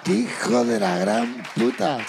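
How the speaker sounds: slow, stretched, each word weighted; drawn-out mock outrage. Real, not acted. To his co-host after the sister joke, slow drawn-out mock outrage. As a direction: savour the insult slowly. Repeats insult emphatically.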